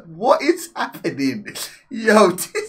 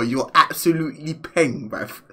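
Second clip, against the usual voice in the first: posh road man; 6 semitones lower, 4 dB quieter than usual. Retold or imitated. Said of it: "sounding posh and from the road".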